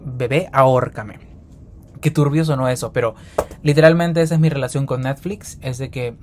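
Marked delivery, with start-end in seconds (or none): 0.0-1.2 mock sultry plea. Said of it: "yo veo Netflix y digo".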